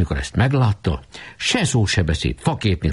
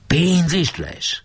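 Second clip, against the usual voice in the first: eager question; 11 semitones higher, much slower than usual. A narrator's reading. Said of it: "kérdezte Janó".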